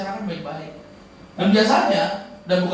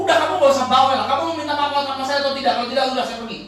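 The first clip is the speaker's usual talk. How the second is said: raised, hammed-up angry uncle; mock angry scolding; 3 semitones higher, faster than usual. Uncle scolding the groom, hammed-up anger. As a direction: bark at him to stop nagging. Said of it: "nada tinggi yang marah".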